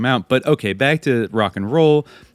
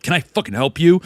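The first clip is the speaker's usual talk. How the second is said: a retold sharp snap, pitched higher; mock snapping; 6 semitones higher than usual. Manager snapping at the dead bandmate's son, mock hostile. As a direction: bark it at the kid like a hostile stranger. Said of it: "snaps at him immediately".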